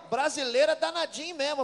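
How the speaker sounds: a friend's teasing praise, told loudly and amused; amused loud retelling. Retold or imitated. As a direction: tell it with delighted volume.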